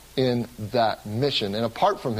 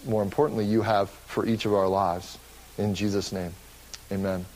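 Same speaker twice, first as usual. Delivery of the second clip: prayer. Real, not acted. Pastor prays before sermon.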